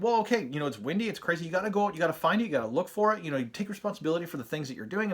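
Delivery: a hint of a lecturing father, quick; dad rant. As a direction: rattle off the fatherly lecture, mock-stern. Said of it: "like, dad rant".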